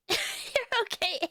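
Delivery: high, slow, teasing "You're okay"; a mock-grudging "You're okay"; drawn-out teasing.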